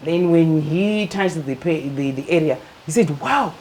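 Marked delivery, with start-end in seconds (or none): 3.2-3.5 a high, startled wow; surprised wow. Retold or imitated. Doctor touching the lump, startled high wow. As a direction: gasp it out in alarm at the lump.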